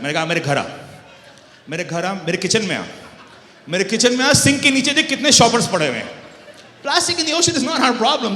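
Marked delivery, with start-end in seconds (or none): 0.3-6.1 building from mild to loud, fast and exasperated; heated retort. Retold or imitated. Loud exasperated retort to the white boss. 6.8-8.4 high, loud declaration with a laugh close behind; shouted punchline. Retold or imitated. Shouting the punchline at the boss.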